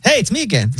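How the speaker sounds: high, breezy robot voice; chill AI voice. Retold or imitated. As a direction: play a relaxed phone bot. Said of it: "it's like".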